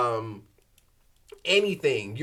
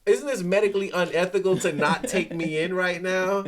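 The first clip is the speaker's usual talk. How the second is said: raised-pitch, incredulous complaint; indignant protest; 4 semitones higher, 3 dB louder than usual. Retold or imitated. Patient protesting being turned away from urgent care, indignant.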